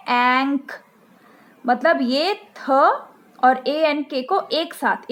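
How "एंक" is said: एंक said as one sound, no letter names; glued sound ank. Shown as a demonstration. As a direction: blend एंक into a single sound. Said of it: "ए एन के का sound ऐसे बताना है".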